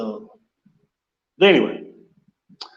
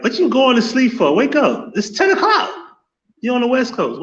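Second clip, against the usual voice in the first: high, teasing wake-up call; mock wake-up call; 9 semitones higher than usual. Streamer teasing sleepy viewers with a high mock wake-up call. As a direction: rouse the sleepers with a high needling voice.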